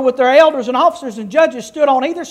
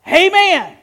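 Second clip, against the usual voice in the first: a mild mock shout of Amen, pitched up; 5 semitones higher than usual. Pastor retelling the people's reply, a lightly raised mock shout. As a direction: call out Amen like the crowd on the mountain. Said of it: "Ebal shouted".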